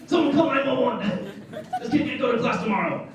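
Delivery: high, loud frantic alarm; hammed-up emergency yelling; mock panic. Friends panicking over his hangover, hammed-up alarm.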